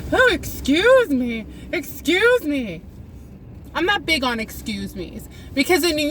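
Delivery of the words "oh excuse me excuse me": mimicked Midwesterners. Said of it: "Can we just stop saying 'excuse me'?".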